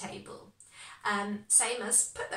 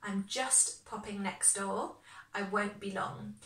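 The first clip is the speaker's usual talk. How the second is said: slower, each word clear for learners; slow, careful repeat; 4 dB quieter than usual. Shown as a demonstration. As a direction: say it slowly so students catch it. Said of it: "remember how I told you about just".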